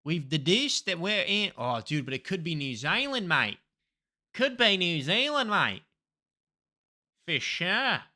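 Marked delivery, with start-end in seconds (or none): 2.0-8.0 mock Antipodean accent; playful Australian or New Zealand vowels; put-on accent. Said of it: "I do an accent of where I think I am".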